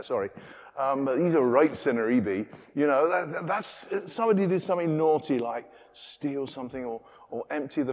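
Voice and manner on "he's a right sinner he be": put-on Devon accent. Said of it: "that's a Devon accent came out there".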